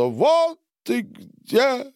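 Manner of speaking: high, loud, very slow cry; muffled exclamation. A narrator's reading. Boris calls out from under the bed in a high, slow cry. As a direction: drag out the find in a high voice. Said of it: "глухо раздалось из-под кровати".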